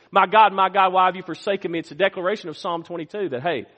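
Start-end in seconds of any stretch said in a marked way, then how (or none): 0.1-1.8 declared cry. Retold or imitated. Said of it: "It's a declaration when he says".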